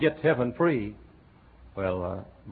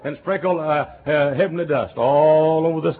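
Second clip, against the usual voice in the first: mocking naive believers; 4 semitones higher, 5 dB louder than usual. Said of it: "A lot of folks think".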